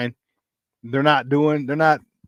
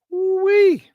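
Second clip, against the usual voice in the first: high excited whoop; 4 dB louder than usual. Real, not acted. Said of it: "I'm excited".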